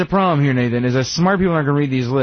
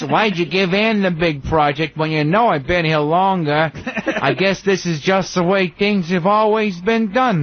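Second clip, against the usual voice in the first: whiny worker; 3 semitones higher, slower than usual. Pretend. Playing whiny worker to boss.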